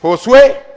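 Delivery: Josué said as "ho-SWE"; Josué set apart, with a Spanish "h" sound at the start; Spanish form. Shown as a demonstration. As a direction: stress the final "é" of Josué. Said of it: "usted puede decir".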